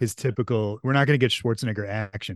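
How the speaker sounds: normal talking voice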